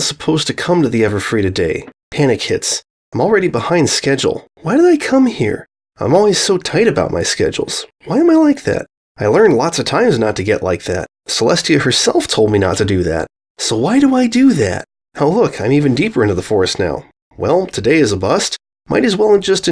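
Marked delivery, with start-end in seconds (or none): 4.6-8.9 high, frantic questions at herself; panicked self-scolding. A narrator's reading. Panic hits, behind schedule. 13.6-14.8 high, frantic questions at herself; panicked self-scolding. A narrator's reading. Frustrated at herself.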